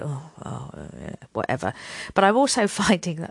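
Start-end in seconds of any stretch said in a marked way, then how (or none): 0.0-1.7 low, offhand shrug of a voice; dismissive. Retold or imitated. Telling herself it can wait, offhand. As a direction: brush it off lazily.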